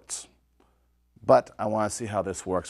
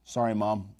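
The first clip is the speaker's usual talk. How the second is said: talking through food; mouth full. Real, not acted. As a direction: apologize with a mouthful. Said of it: "I'm talking with my mouth full".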